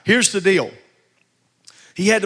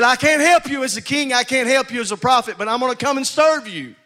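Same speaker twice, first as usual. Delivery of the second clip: voicing Jesus; 6 semitones higher than usual. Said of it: "He said".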